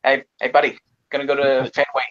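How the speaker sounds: casual put-on Boston accent. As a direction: invite a buddy along in mock Boston accent. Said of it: "no, the Boston accent".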